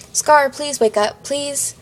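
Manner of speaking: slow, high pleading; crying plea. A narrator's reading. Jeff hugs Scarlet's corpse, crying. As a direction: draw out the plea, fading on the last word. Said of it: "I cried".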